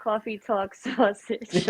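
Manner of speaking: Coffee as kwaw-fee, talk as tawk, sausage as saw-sidge; New York accent on demand; Brooklyn accent. Shown as a demonstration. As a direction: lay on the Brooklyn vowels. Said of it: "Say coffee for me".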